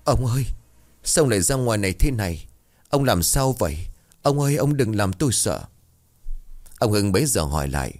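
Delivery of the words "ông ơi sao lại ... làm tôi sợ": stammering in fright. Acted. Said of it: "Miệng của bà lắp bắp".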